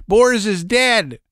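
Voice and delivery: high, slow, stunned shout; a dazed man yelling the news; shocked cry. Acted. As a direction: cry it out in disbelief. Men shocked at robot's death.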